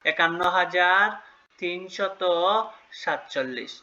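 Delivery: measured read-out, pausing between each part; demonstrated number reading. Shown as a demonstration. Teacher shows pupils how the number is pronounced, in separated chunks. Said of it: "তাহলে উচ্চারণ কি হলো".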